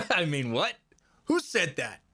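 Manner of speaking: hammed-up who said that, mic test; mock surprise. Shown as a demonstration. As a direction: play fake startled to show the mic. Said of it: "a little bit of a demonstration".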